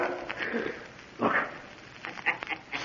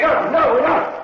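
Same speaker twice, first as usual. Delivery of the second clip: frightened denial; 10 semitones higher, slower than usual. Acted. Accused of murder, trapped.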